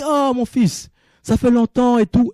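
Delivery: high, lightly voiced old marabout welcoming his son; marabout greeting son. Voicing the blind marabout's greeting.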